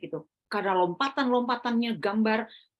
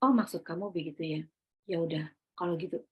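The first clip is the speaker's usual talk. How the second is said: ketus dingin; 6 semitones lower, 6 dB quieter than usual. Retold or imitated. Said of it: "Saya nggak bisa tahan".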